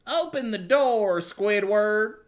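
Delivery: high, loud, stretched order; loud command. Acted. Squirrel ordering her friend to open the door, high shout.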